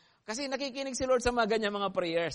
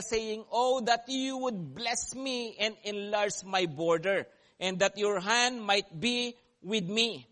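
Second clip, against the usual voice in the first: scripture reading; 2 semitones higher, slower than usual. Acted. Preacher reads scripture slowly.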